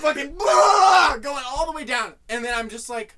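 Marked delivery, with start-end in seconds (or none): 0.3-1.2 long, high, loud "blaaah"; over-the-top guzzling noise; loud gobbling noise. Retold or imitated. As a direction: roar it out like devouring food. Mimics devouring the melon.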